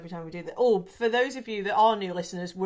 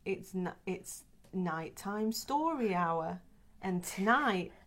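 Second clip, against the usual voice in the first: put-on children's TV presenter; 5 dB quieter than usual. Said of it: "like a children's T V programme".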